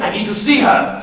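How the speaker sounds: a lightly put-on French accent. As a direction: play a hammy fake French chef in a French accent. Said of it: "German accent".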